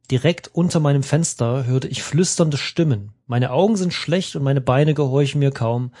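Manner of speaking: even storyteller reading; story narration. Acted. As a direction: read it like an audiobook passage. Reads adventure text aloud. (ruhiger Vorleseton)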